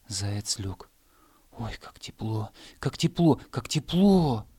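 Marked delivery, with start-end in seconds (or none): 1.5-2.5 soft delight. Acted. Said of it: "Заяц стал прыгать и ложиться". 2.8-4.5 "как тепло" cried out higher and louder; excited grass. Acted. Grass blades crying out to the hare, excited.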